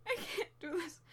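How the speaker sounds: quiet, drained despair; soft and defeated. Acted. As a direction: drop to a quiet hopeless murmur. Crying over failures.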